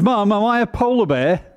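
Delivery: a small cub asking innocently; baby bear voice. Acted.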